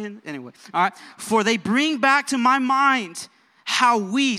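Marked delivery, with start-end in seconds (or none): 1.2-4.4 slow, raised, declamatory reading; scripture reading. Real, not acted. Preacher reading scripture to congregation, slow and emphatic. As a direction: read the verse out deliberately to the room.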